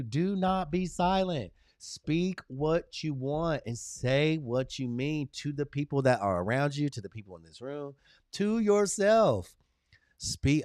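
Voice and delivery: slow, emphatic motivational delivery; slow affirmation. Real, not acted. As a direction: preach it slowly to the room. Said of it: "affirmation speech to viewers".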